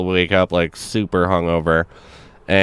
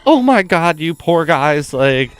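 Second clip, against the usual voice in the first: high, fussing worried mom; sympathetic mom; 9 semitones higher than usual. Retold or imitated. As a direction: gush over the poor boys like a doting mother. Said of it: "she's like".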